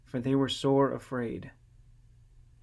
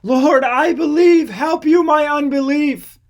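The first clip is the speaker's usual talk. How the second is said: very high, loud, slow anguished cry; tearful, desperate shout of faith; crying out with tears; 12 semitones higher, 11 dB louder than usual. A narrator's reading. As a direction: wail the confession through tears. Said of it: "cried out and said with tears".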